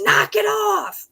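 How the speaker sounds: slow, high, loud dog-scolding yell. Retold or imitated. Recreating her viral video yelling at dogs, loud slow shout. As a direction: drag out the scold. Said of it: "yelling at the dogs".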